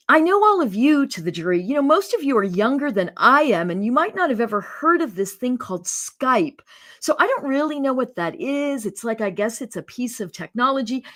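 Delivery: mocking a folksy defense lawyer's opening to the jury; country bumpkin. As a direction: play dumb like a simple country lawyer. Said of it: "presents herself as a country bumpkin".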